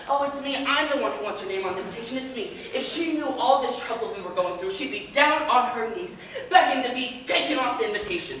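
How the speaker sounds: loud, hammed-up retold outburst; screaming stepmother. Man retelling his stepmother's screaming, mock outburst. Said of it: "she started screaming and saying".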